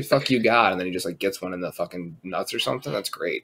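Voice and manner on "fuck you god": higher, louder mock curse; mock defiant shout. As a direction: hurl it up at God, jokingly. Acted defiant curse at God.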